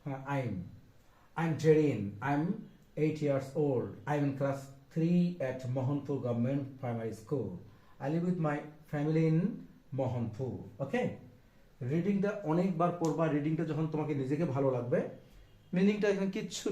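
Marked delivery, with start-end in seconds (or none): 0.4-10.8 model reading. Shown as a demonstration. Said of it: "Google-এ search দিয়ে দেখবা".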